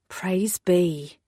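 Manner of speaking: a breathless whispered thanks; whispered relief. Acted. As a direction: whisper it under your breath. Relief after robbers' ploy.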